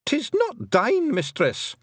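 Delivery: very high Scots shriek. A narrator's reading. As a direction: protest in a high, panicky shriek. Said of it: "shrieked Rob Anybody".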